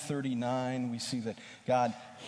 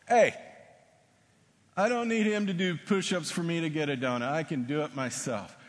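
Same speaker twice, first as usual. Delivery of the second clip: indignant protest; 6 semitones higher, 6 dB louder than usual. Retold or imitated. Basketball player protests to professor.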